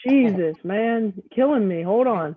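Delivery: tinny can-and-string sound; like talking through a tin can; tin can phone. Real, not acted. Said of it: "it sounds like he's talking into a can with a string tied to it".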